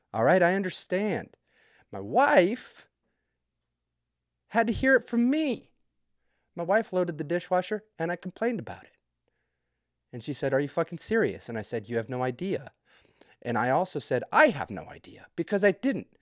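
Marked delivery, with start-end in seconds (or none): none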